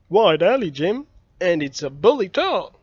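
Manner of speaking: put-on young Tom wheedling his friend; boy Tom. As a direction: coax him like a scheming boy. Narrator voices Tom.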